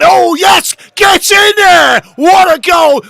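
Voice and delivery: full-throated fan yell at a goal; goal celebration shout. Real, not acted. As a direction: roar it out as the winner goes in.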